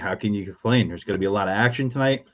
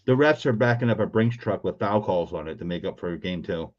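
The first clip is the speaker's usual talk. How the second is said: talking through a mouthful of food; words round a bite of food; mouth full. Real, not acted. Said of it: "you're talking with your mouth full".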